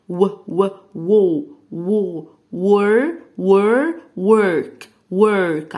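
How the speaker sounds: ور then ورك said loud and clear; sounding out ورك step by step; loud phonics build. Shown as a demonstration. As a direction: stretch وو into ورك. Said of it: "صوت ال W أصلًا هو صوت ال و".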